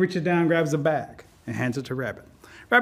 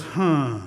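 drawn-out low "huh"; pondering huh; 5 semitones lower than usual. A narrator's reading. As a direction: let out a low, musing huh. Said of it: "Rabbit goes".

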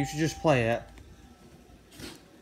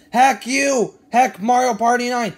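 angry outburst; 3 semitones higher, 5 dB louder than usual. Acted. Angry verdict on the game.

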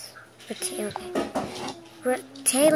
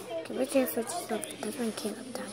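whisper; 4 semitones lower, 16 dB quieter than usual. Real, not acted. Aside, unvoiced.

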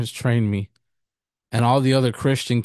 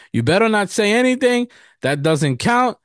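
higher-pitched mock kid protest; retold sibling pleading, pitched up; indignant protest; 9 semitones higher than usual. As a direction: argue back like a child caught out. Child argues back at tattling sister.

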